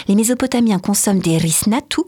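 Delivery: reading risnatu with a light Italian accent. Shown as a demonstration. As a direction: lend risnatu an Italian lilt by mistake. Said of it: "pardon, j'ai mis l'accent italien". (accent italien léger sur « risnatu »)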